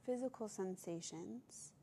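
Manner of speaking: calm meditation voice with long pauses; guided meditation. Acted. Yoga teacher leading listeners to observe their breath, guided meditation. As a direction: guide them gently, leaving space between phrases.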